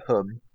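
"hum" with a short vowel, for home; Norfolk pronunciation. Shown as a demonstration. Giving co-host favourite Norfolk word, "hum" for home. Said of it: "Norfolk sound and words is".

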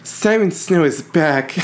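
slow, high, laughing announcer voice; silly announcer voice. Pretend. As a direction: announce it like a hype trailer. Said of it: "Manager Ben loves when I talk in that voice".

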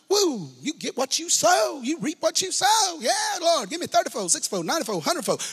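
high-pitched, whooping revival-style hype; hammed-up hallelujah excitement over a payout; mock excitement. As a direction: whoop it up like a money preacher, mockingly. Mock excitement at money preaching.

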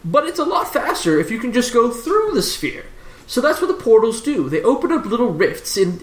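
lightly voiced lecturing professor. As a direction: explain the cosmos as a professor, lightly in character.

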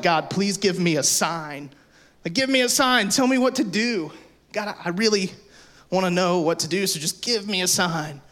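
mock desperate prayer. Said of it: "will say the words like".

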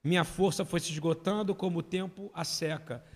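slow solemn scripture reading; leitura solene. Real, not acted. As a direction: read the psalm slowly and gravely. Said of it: "Aí diz assim". (leitura lenta e solene do salmo)

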